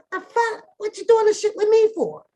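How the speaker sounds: high, loud indignant complaint; indignant outburst. Retold or imitated. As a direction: protest to sister, offended. Retold protest to sister.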